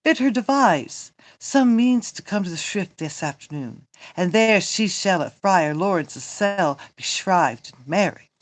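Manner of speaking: emphatic, declaimed stage dialogue; theatrical Shakespeare reading. Acted. Reading Romeo and the nurse aloud, theatrical. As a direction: play it out like verse on stage.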